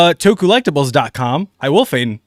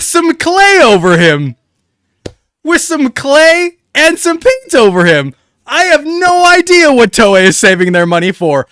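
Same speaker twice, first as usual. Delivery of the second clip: excited rant; 9 semitones higher, 5 dB louder than usual. Real, not acted. Excited rant about the suit.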